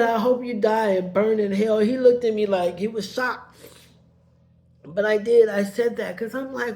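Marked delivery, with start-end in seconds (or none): 0.0-1.8 angry curse. Retold or imitated. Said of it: "And I said".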